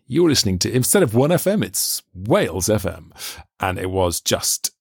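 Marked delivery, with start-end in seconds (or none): 0.1-3.1 hammed-up childhood radio DJ ident; kid DJ voice. Boy with a tape machine announcing his own station. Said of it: "six-year-old kid with his tape machine".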